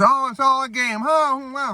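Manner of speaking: high, airy retold wonder; hammed-up movie-character realization; mock amazement. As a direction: react in a put-on high voice of dawning surprise. Retold reaction to the fake kidnapping.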